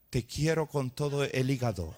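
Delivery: half-laughing mock love line, barely changed voice; laughing mock declaration. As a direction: tease the wrong word with a chuckle. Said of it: "¿Cómo suena ahí?".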